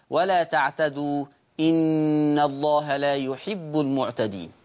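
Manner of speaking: slow, measured recitation of the verse; Quran recitation. Shown as a demonstration. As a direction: recite it slowly with tajweed. (تلاوة قرآنية بطيئة)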